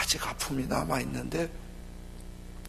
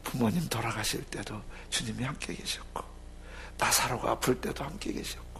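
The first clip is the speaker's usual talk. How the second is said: soft hushed whisper; whispered comfort; 4 semitones lower, 6 dB quieter than usual. Acted. Preacher consoles those who lost parents. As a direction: breathe it tenderly.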